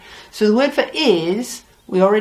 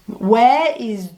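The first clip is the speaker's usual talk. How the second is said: slow teaching; much slower than usual. Shown as a demonstration. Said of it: "it sounds nothing like where".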